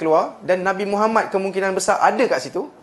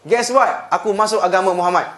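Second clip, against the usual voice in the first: Hamzah's final blow; 4 dB louder than usual. Retold or imitated. Teacher voicing Hamzah's final blow to Abu Jahal, loud triumphant taunt. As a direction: deliver the last blow with full force. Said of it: "Last lah, last".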